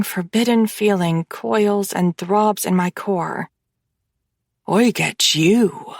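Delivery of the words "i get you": slow possessive claim. Acted. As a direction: savour each word, possessive.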